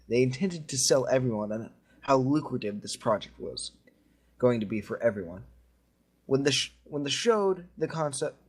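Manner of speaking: measured creepypasta narrator voice; story narration. Acted. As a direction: tell it like a spooky campfire tale. Continues reading the story.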